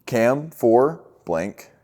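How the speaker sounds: slow, spelled-out walkie call; radio call. Shown as a demonstration. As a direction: lay out the call pattern slowly, like a template. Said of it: "So it's going to be".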